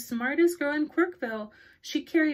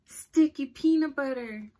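zombie moan; 3 semitones higher, 6 dB louder than usual. Acted. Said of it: "moaned Reginald".

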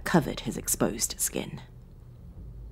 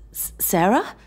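higher, stammered disbelieving question; incredulous; 7 semitones higher than usual. A narrator's reading. Bound man recognising Sarah, incredulous. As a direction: stumble on the name in disbelief. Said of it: "he asked incredulously".

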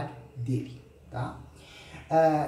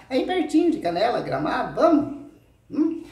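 teasing invitation; 8 semitones higher, 5 dB louder than usual. Acted.

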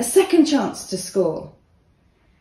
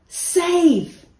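excited cry; 10 semitones higher, 3 dB louder than usual. A narrator's reading. Goalie saves the penalty.

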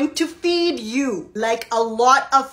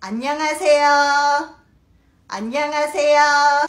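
polite greeting; much faster than usual. Shown as a demonstration. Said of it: "with a bow".

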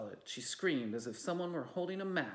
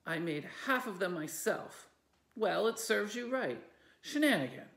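angry; 7 semitones higher, 5 dB louder than usual. Acted. Angry sisters quarrel.

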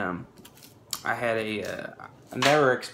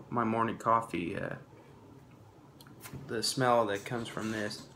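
talking around pipe stem; words through clenched pipe; pipe in mouth; 3 dB quieter than usual. Real, not acted. Seen 1: Bearded man holds pipe by cheek, then puts stem in mouth.

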